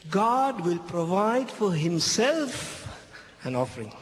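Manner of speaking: God will provide for himself, drawn out slowly with GOD lifted high; solemn, deliberate reading of the key line; slow, stressed quote. Shown as a demonstration. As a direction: lean on "God" and stretch each word. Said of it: "Abraham spoke by faith".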